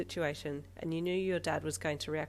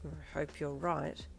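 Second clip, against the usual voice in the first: dubiously; slower than usual. Acted. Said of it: "your dad said dubiously".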